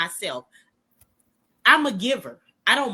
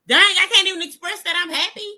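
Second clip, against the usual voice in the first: higher and louder, fast exasperated complaint; exasperated whine; 8 semitones higher, 5 dB louder, faster than usual. Retold or imitated. Friend retelling her hurt reply to Corte, high mock-exasperated whine. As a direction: toss it off in a mock-hurt rush.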